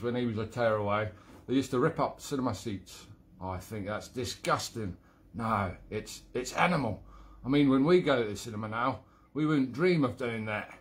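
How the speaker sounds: badly faked Cockney character voice; rubbish London accent. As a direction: tell the joke in a shaky attempt at London. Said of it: "That was a rubbish accent as well".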